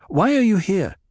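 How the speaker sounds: agitated confusion. A narrator's reading. Paul waking confused, questioning Chaney in agitation. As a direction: ask with sudden alarmed bewilderment.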